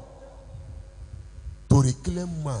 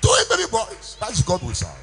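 a much higher, louder jubilant shout; triumphant cry; 11 semitones higher, 3 dB louder than usual. Acted. Pastor proclaims the miracle birth, jubilant shout.

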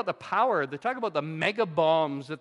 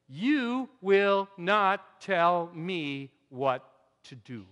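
defiant heart; 3 dB louder, much slower than usual. Acted. The defiant human heart speaking.

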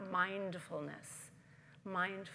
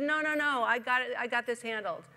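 stubborn refusal; 4 semitones higher, 8 dB louder than usual. Acted. Man waves off helicopter.

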